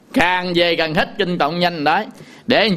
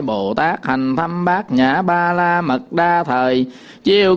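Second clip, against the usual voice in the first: sutra read at an ordinary speaking pace; flat spoken reading of the sutra; plain recitation. Shown as a demonstration. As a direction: read it through without chanting. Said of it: "Thấy không?".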